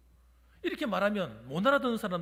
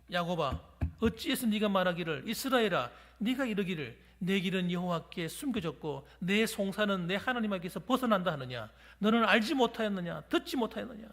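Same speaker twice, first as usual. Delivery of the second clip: mild rebuke. Retold or imitated. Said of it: "막 책망하는 거예요".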